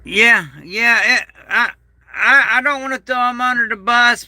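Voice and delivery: real tears, voice cracking high; choking up mid-sentence; voice breaking. Real, not acted. Telling viewers about his family, voice breaking into tears.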